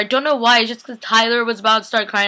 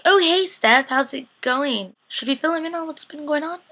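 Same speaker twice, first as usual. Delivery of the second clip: acted chirpy greeting; 7 semitones higher than usual. Greeting Steph in an imagined scene, acted high-pitched and casual. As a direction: play a high, over-casual hello.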